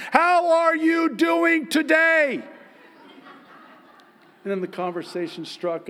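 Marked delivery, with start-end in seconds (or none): 0.1-2.4 much higher, much louder, slow and over-articulated; over-enunciated yell. Shown as a demonstration. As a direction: shout each syllable so he hears through a mask. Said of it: "I have to enunciate every".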